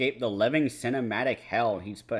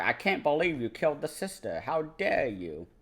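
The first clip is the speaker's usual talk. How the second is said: a light imitation of a Russian accent, pitched higher; hammed-up Russian accent, higher voice; mock Russian accent; 6 semitones higher than usual. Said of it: "but her accent is Russian".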